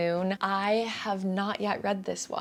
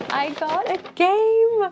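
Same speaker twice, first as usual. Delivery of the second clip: high, loud, drawn-out delight; excited; 12 semitones higher, 8 dB louder, slower than usual. Real, not acted. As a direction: gush over the new find. Excited reveal of a game.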